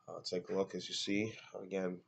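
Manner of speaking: stuffy, blocked nose voice; congested. Real, not acted. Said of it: "I'm sounding a little congested".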